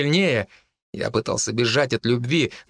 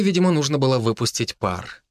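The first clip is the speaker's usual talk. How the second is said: plain reading voice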